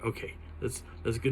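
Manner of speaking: breathy whisper, steeling himself; whispered self-pep. Retold or imitated. Frozen in fear, urging himself to look: whispered. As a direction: whisper it like you're about to jump.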